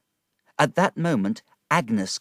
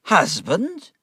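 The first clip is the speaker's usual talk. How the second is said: high shocked echo; 10 semitones higher, 5 dB louder than usual. A narrator's reading. Wickfield alarmed.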